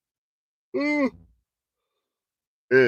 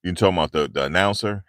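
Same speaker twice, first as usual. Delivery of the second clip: ordinary talk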